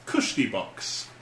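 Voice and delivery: slow, soft half-whisper; reading a sign. Real, not acted. Reading a plaque's odd words, slow and soft. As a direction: read the plaque hushed and slow. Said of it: "a wooden plaque that reads".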